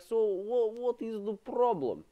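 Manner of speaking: high put-on clerk voice; a light squeaky shop assistant; imitating clerk. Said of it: "then he's like".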